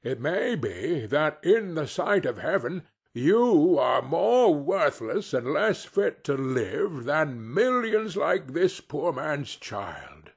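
a hint of a stern ghost scolding; stern rebuke. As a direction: lecture him gravely on his cruelty. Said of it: "the ghost's rebuke".

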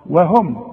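"وهم" as wehum, waw kept thin; light waw. Shown as a demonstration. Teacher shows the student, light waw. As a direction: start "وهم" thin and fronted. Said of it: "مرققه".

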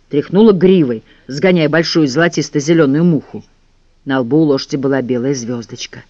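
ordinary delivery

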